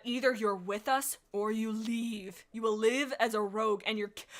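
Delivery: stern ultimatum. Acted. Leader's ultimatum, slow.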